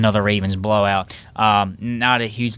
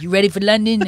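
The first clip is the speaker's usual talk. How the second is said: mock coworker; 9 semitones higher, 4 dB louder than usual. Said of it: "They're like".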